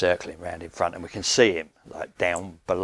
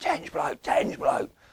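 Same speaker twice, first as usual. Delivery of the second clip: mock shouting, re-enacted. Retelling calling to a man in a bivvy down the bay, retelling a shout. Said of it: "I'm shouting and I'm shouting".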